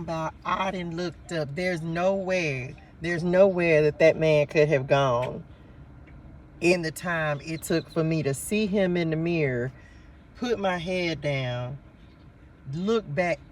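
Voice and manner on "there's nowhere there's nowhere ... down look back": amazed disbelief. Real, not acted. Retelling the vanished old man.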